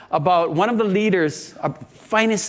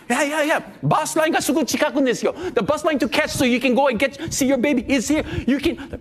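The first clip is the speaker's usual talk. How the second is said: higher-pitched retold eagerness; eager offer; 5 semitones higher than usual. Host couple offering a stranger their room, eager. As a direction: jump in with a keen offer.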